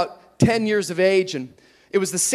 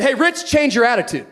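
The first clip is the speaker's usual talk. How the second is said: a hint of a stern father; lightly voiced dad scolding his son; 3 semitones higher than usual. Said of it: "turned out of his Santa voice into Dad voice".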